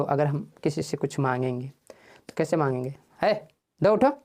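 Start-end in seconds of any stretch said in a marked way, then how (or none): 3.2-4.1 rude demand. Shown as a demonstration. Teacher showing how not to ask, rudely. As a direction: snap an order like an ill-mannered person. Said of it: "ऐसा थोड़े मांगेंगे".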